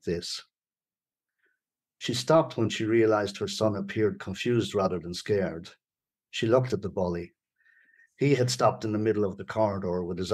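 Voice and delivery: measured, deliberate storytelling read; story narration. A narrator's reading. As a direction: read the tense scene aloud, pausing between sentences. Reads a story aloud.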